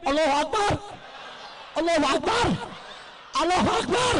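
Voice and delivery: mildly mocking, spaced-out takbir; imitated confused takbir. Orator mimics the confused President joining the takbir, mild mockery. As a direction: copy a flustered man joining in. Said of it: "Saking bingungnya ikut takbir".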